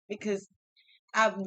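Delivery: ordinary talk, nothing marked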